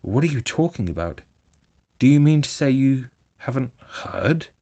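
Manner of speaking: excited Rat. A narrator's reading. Rat can't believe Toad hasn't heard the news, excited. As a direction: burst out with startled alarm. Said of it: "greatly excited".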